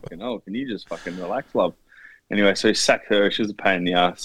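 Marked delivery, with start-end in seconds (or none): 0.0-1.7 mock exasperated. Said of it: "He's like".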